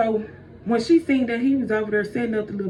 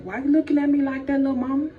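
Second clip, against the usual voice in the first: teasing; 3 semitones higher, faster than usual. Acted. Snake teases Eve who rolled eyes.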